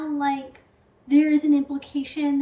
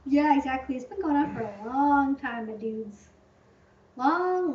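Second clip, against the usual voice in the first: ordinary delivery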